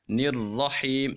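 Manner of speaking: نررحیم recited slowly, the نون absorbed into a hard, doubled, heavy را; slow نررحیم with the را pressed strong and full; merged nun into ra. Shown as a demonstration. Tutor demonstrates the merged heavy را for students. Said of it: "نون کو را کے ساتھ ملا دیں گے".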